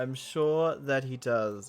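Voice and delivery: sarcastic. Real, not acted. Sarcastic reply to NPC.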